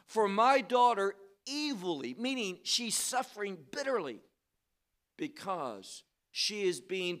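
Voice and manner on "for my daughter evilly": mildly raised, louder quote; a restrained, louder appeal; preacher voicing a woman's cry; quoted crying out. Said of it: "She cries out to him, saying this".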